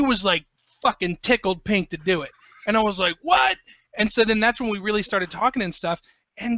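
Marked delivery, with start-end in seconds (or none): 3.2-3.6 a much higher, startled "What?"; mock astonished outburst; retold surprise. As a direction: squeak out disbelief. Surprised at Grant saying yes.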